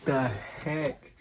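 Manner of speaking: slow, drawn-out disbelief; surprised. Retold or imitated. Dad reacting to the baby coming out fast, slow and stunned. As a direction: stretch out the shock. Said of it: "and I was like".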